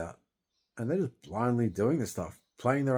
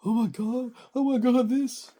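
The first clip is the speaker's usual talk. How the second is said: shrill mock panic, much higher and louder; mocking fuss; 8 dB louder than usual. Mimicking social services fussing over him, shrill mock panic. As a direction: ham up a flustered official's fake alarm. Mocking staff overreacting to his grief.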